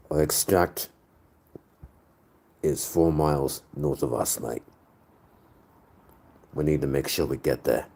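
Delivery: lightly put-on British-Australian accent; measured Aussie-tinged British character voice. Shown as a demonstration. Squad character briefing the team on escape, UK-Aussie accent. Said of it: "I'll typically default to a U K accent".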